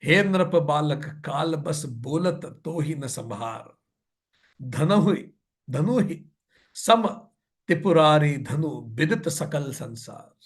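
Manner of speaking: slow, measured verse chanting; verse recitation. A narrator's reading. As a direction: recite the scripture line with drawn-out syllables. (धीमा दोहा पाठ)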